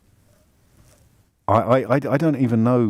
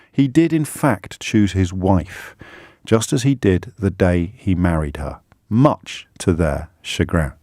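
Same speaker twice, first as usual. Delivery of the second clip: reading aloud; 3 semitones higher than usual. Acted. Host reads article aloud.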